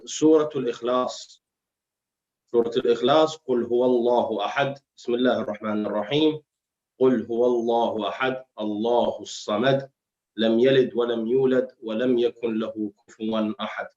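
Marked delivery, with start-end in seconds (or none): 3.5-13.9 quick recited Quran verse; Quran recitation. Acted. Recites Surah Al-Ikhlas, fast.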